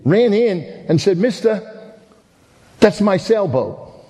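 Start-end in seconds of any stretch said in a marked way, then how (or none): 1.2-4.0 a hint of a high child's voice; lightly voiced boy claiming his boat; pleading boy. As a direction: plead slowly like a small boy.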